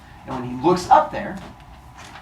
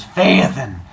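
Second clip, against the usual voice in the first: lightly voiced titan, slow and loud; solemn revelation; 6 dB louder, slower than usual. Titan revealing he is the father, grandly solemn. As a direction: declare it grandly, drawing out the words.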